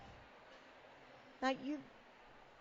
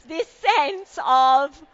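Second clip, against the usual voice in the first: slow, louder, higher, wondering Lily Tomlin lilt; Lily Tomlin impression; 4 semitones higher, 10 dB louder, slower than usual. Speaker to the conference audience, a lightly voiced Lily Tomlin bit. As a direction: stretch it out like a comic's dreamy aside. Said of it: "Lily Tomlin?".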